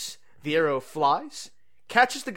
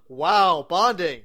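delighted; 2 semitones higher, 5 dB louder, slower than usual. Real, not acted. Delighted at fetch.

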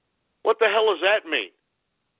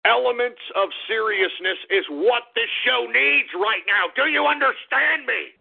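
mock rant; 3 semitones higher than usual. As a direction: lean in and demand an answer. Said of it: "let me calm down".

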